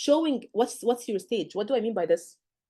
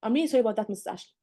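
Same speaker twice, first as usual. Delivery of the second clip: sincere apology; faster than usual. Shown as a demonstration. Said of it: "This is not sorry".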